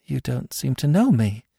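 high, upset woman's voice; growing emotion. A narrator's reading. Captive woman to Smith, growing emotion. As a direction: say it with rising distress. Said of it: "her emotion growing momentarily greater".

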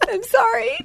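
very high, tearful apology; mock weepy squeak of apology; imitating crying. Crying patient apologizing to the dentist, imitated high weepy voice. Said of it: "I start crying".

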